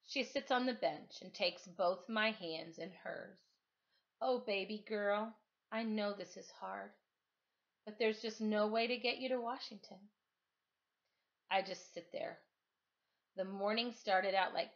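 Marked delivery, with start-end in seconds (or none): 4.2-10.0 tender comfort. Acted. Mrs V comforting, tearful.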